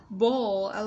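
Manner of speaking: BALL ending on a dark, curled L; curled-tongue L. Shown as a demonstration. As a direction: curl the tongue to finish "Ball". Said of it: "L chúng ta uốn cong lưỡi".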